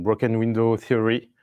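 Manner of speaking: slow, careful French-accented English; mock-proud English accent. Shown as a demonstration. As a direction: say it in your best English accent, a little self-mocking. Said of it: "Vous apprécierez mon accent anglais".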